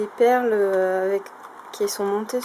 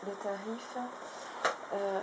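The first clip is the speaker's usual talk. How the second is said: normal talking voice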